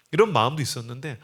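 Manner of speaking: normal talking voice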